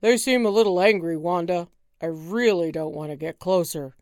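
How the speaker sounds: fast, worried pleading; nervous husband. Acted. Husband to wife, nervous near angry penguins. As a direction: back away nervously.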